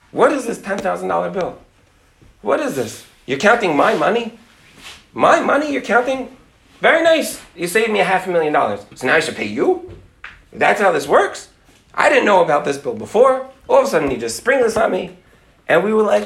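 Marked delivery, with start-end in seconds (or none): 0.1-8.8 higher-pitched indignant mimicry; irate client. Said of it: "all irate". 8.9-15.2 mock-indignant questioning; irate client. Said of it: "all irate".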